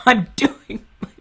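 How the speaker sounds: high, drawn-out fake sobbing; mock meltdown. Host begging critics to leave him alone, mock-tearful. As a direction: blubber it in a hammed-up breakdown. Hammed-up meltdown, likened to Chris Crocker.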